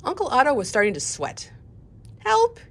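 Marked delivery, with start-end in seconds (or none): 2.2-2.6 high, loud panicked squeak. Acted. Car dealer squeaks for help at the children, a high loud squeak. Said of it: "he squeaked at Mickey and Ava".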